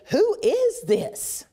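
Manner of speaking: frightened disciples stunned by the calm, awestruck; awed fear. Retold or imitated. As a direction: ask it in trembling amazement. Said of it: "and they say".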